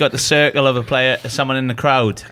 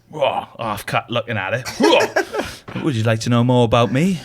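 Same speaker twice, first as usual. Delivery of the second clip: mock Russian lady. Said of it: "when he's doing that woman's accent".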